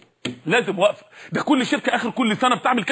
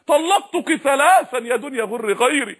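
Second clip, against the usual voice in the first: emphatic renunciation; slower than usual. Retold or imitated. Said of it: "علي بن أبي طالب لما شاف المنظر قال".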